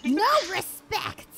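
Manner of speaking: high, slow hammed-up boast; mock proud. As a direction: crow it slowly like a villain. Bragging about healing openly.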